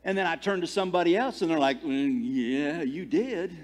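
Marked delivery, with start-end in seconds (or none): 1.8-3.6 retold hesitant agreement, drawn-out hum first; imitating an awkward yes; reluctant confirmation. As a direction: confirm it gently, at an everyday volume. Someone else reluctantly confirms.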